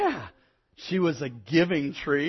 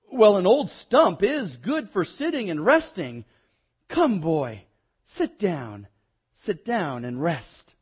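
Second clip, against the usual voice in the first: rallying welcome; 4 semitones higher, 6 dB louder, slower than usual. A narrator's reading. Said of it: "straightening herself up as much as she could".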